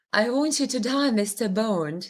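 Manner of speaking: accented Bond line, tentatively performed; movie villain line on request. Shown as a demonstration. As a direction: try the Bond line in accent, dropping at the end. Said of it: "Can you say in that awesome accent".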